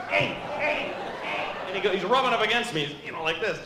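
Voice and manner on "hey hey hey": much higher, rapid string of greetings; Uncle Arnie. Retold or imitated. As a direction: babble hey over and over like the goofy uncle.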